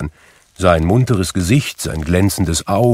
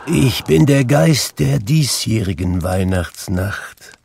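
ghost voice; 3 semitones higher than usual. Acted. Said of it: "sagte eine Gestalt".

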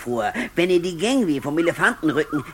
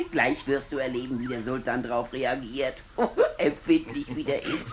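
gloating snigger; 4 semitones lower, 6 dB quieter than usual. Acted. Vizier gloating in hushed laughter.

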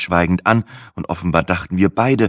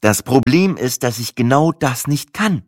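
mildly irritated, raised pitch; testy explanation to a clerk; getting annoyed; 6 semitones higher, 3 dB louder than usual. A narrator's reading. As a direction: let irritation creep in, a bit louder. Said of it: "begann ich sauer zu werden".

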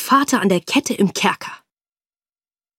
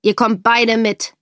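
befehlender Offizier; 2 semitones higher, 6 dB louder than usual. Acted. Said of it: "sagte der Offizier".

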